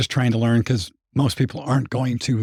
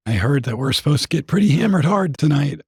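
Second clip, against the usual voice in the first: hoarse, rough throat; raspy voice. Real, not acted. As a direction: speak through a raspy throat. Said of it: "Please excuse my raspy voice".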